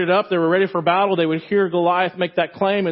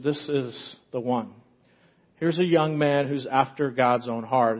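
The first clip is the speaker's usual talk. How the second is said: softer, slower, like God speaking inwardly; hushed voice of God; 4 semitones lower, 4 dB quieter, slower than usual. Acted. God whispering to Samuel in his heart, soft and slow. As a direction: let it drop low and slow, a quiet inner word.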